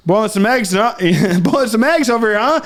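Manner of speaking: a mock Louisiana cook; Cajun accent. Friend mocking his Cajun cooking bit. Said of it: "he just, like".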